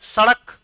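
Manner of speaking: सड़क with a flapped ड़, not hard ड. Shown as a demonstration. Teacher models the word for students, सड़क with flapped ड़. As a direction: flap the tongue in सड़क. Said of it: "सड़क नहीं".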